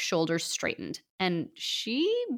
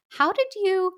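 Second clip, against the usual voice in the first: high, louder disbelieving question; astonished; 12 semitones higher, 4 dB louder than usual. Acted. Author astonished by the disguise, high and loud. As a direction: break off in astonishment.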